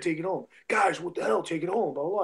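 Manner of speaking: mock exasperated ref repeating an order; mildly heightened retold urgency. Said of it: "ref started getting higher".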